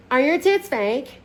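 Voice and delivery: high, slow attempt at Scottish; badly faked Scottish accent, drawn out. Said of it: "she has a Scottish accent".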